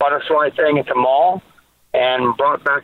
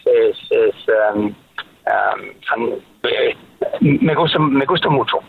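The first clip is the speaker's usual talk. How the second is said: lower, earnest Spanish dad voice; lightly played Spanish dad; 3 semitones lower than usual. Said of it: "a Spanish dad".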